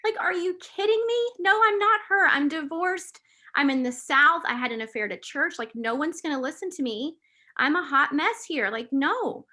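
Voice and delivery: high, loud retold yell of protest; angry yelling. Woman refusing God's call, re-enacting her high, loud yelling. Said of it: "I remember yelling".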